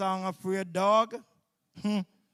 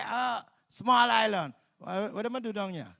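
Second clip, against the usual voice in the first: mock Jamaican sniffing at a small island; mocking Jamaican brag; 2 semitones higher than usual. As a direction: sneer like a boastful visitor. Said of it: "them who like to say".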